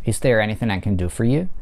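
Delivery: is there anything I can do for you with do stressed, rising at the end. Shown as a demonstration. Teacher models a yes-no question stressing do. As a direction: lean on do and lift at the end. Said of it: "под ударением находится глагол do".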